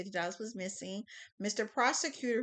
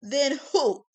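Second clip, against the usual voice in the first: pressing demand; 9 dB louder, slower than usual. Acted. Prosecutor presses.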